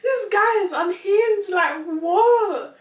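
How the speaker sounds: high, loud exclamation; exasperated disbelief. Real, not acted. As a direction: laugh out the shock. Reacting in disbelief, laughing.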